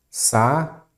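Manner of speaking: Sa-u-de said as three separate syllables with a light rise; teacher tapping out Sa-u-de syllable by syllable; syllables split. Shown as a demonstration. Teacher showing students the hiatus, syllables split. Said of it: "a sílaba forte é a penúltima".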